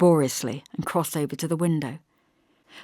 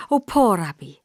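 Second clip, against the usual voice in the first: contrite; 2 semitones higher, 6 dB louder than usual. A narrator's reading. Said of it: "suddenly contrite".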